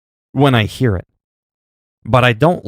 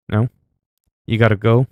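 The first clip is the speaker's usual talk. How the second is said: ordinary talk, nothing marked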